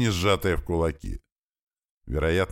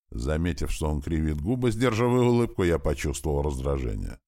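usual speaking voice

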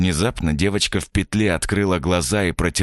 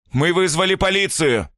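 hoarse shout; 13 semitones higher than usual. Acted. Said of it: "хрипло крикнул Илья".

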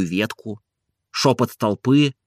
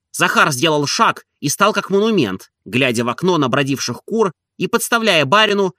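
ordinary delivery, nothing marked

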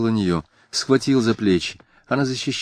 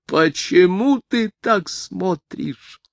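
much higher, slow, anguished cry; terrible scream; 11 semitones higher, much slower than usual. A narrator's reading. A woman screams at the man staring at her, high slow cry. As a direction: scream the question out in horror. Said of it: "И неожиданно страшный крик".

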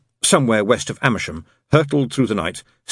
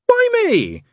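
high, pleading cry; Crowley begs the demons to spare him, desperate; 4 dB louder than usual. A narrator's reading. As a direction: beg to be spared, much higher. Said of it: "said Crowley desperately".

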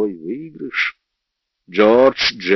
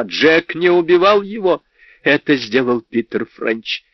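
high, insistent outcry; crying out; 6 semitones higher than usual. A narrator's reading. Netta defends Jack against the narrator, crying out. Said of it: "выкрикнула она".

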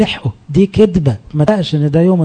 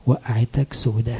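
devil's soft taunt; 4 semitones lower, 7 dB quieter, slower than usual. Acted. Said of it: "يجي الشيطان التاني في ودنك التانية".

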